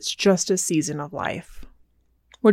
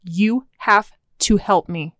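stern voice. Shown as a demonstration. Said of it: "I pulled out my stern voice".

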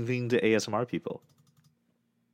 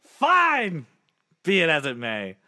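defeatist sigh; 5 semitones higher, much slower than usual. Retold or imitated. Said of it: "my defeatist attitude just goes".

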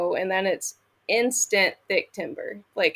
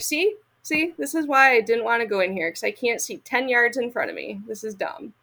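exasperated i-told-you-so; 3 semitones higher than usual. Retold or imitated. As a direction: complain to Pat that she was right. Proves point to husband in timber.

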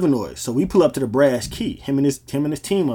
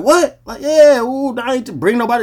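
imitating him; 10 semitones higher, 6 dB louder than usual. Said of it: "He like".

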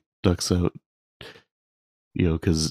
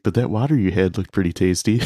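words cracking into a laugh; can't hold back a chuckle while quoting; laughing through the line. Real, not acted. Retelling a funny movie line.

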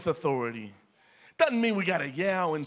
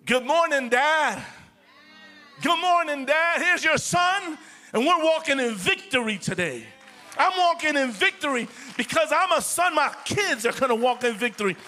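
confident son's prayer; 4 semitones higher than usual. Shown as a demonstration. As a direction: greet the Father triumphantly, full of victory. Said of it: "You got to say".

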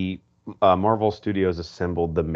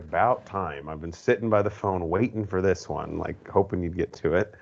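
deadpan; 4 dB quieter than usual. Retold or imitated. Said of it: "deadpan humor where he's like".

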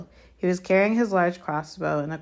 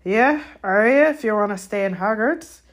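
loud, raised, forceful retort; fierce; 5 semitones higher, 8 dB louder than usual. A narrator's reading. Hagrid answering Malfoy's refusal, fiercely. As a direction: put the boy firmly in his place. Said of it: "said Hagrid fiercely".

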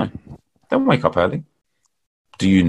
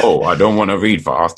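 cynical voice; 2 semitones lower than usual. Retold or imitated. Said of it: "that's my, uh, cynical voice".

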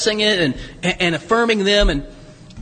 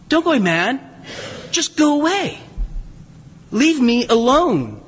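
imagined weary dismissal; 4 semitones higher than usual. Retold or imitated. Imagined Princess Diana dismissing people.

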